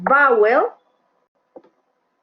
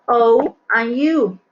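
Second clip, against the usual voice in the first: slow list; 4 dB louder, slower than usual. Shown as a demonstration. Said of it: "Las vowels son".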